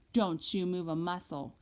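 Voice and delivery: put-on super mad mother, Southern accent, held in; measured warning with a Southern accent. A narrator's reading. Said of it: "talking in her real Southern style accent".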